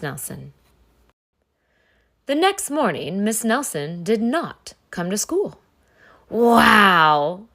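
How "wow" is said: put-on loud gleeful kids' shout; excited yell. Kids cheering their teacher's absence, loud yell. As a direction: burst out with joy. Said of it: "yelled the kids".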